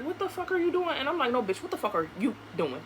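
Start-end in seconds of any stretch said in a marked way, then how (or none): 0.0-1.0 high-pitched mock outrage; imitated angry demand. Repeats his demand from the door. 1.3-2.8 quick, lower comeback; retold defiant retort. Her retort turning question on him.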